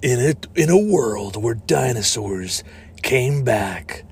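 slow, portentous voice-over; movie trailer announcer. Acted. Announcing a fake dinosaur movie trailer, portentous. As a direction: pause for mock-epic weight.

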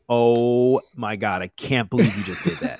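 mock an appalled wife, stretching the opening words; wife's disbelief. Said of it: "my wife looks at me and".

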